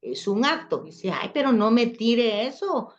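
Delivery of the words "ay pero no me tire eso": louder, higher-pitched mock complaint; acted protest. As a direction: object as if just hit. Acted protest at thrown pillow.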